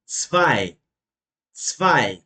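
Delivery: "zwei" ending in an A-I glide. Shown as a demonstration. Teacher explaining the rule, "zwei" modelled with A-I. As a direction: say "zwei" with A-I at the end. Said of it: "E I vai ter som de A I".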